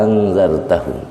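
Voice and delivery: first "a" of "angzartahum" held very long as one vowel; one long unbroken "aaa" opening "angzartahum"; isba' six counts. Shown as a demonstration. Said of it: "panjangnya enam harkat".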